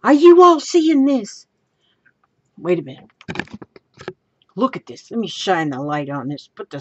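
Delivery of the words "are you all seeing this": excited outburst climbing to a high, loud question; bursting with excitement. Real, not acted. Crafter showing viewers her find, bursting with excitement. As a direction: build up as if about to explode. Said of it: "I'm excited".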